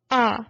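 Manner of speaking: A said as the English name ay; English letter A. Shown as a demonstration. Teacher names the English letter first, plain ay. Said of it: "The vowel A in English".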